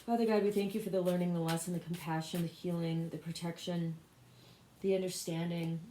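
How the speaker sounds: evenly recited personal prayer; spoken prayer. Real, not acted. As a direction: pray aloud in a steady, running litany. Leads an opening prayer.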